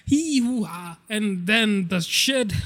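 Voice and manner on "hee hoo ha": retold cheering. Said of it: "so we were like".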